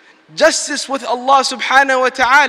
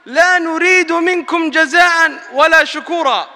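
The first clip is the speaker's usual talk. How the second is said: building recitation; 3 semitones higher, much faster than usual. Acted. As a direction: recite it, building to a proclaiming call. Long Quran passage, rising force.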